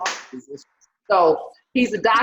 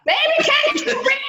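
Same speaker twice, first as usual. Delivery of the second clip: put-on much higher, sassy old lady scolding a ketchup asker; sassy counter lady. Scene: old lady behind counter scolding a customer, high mock sass. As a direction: put on a shrill old counter woman, mocking.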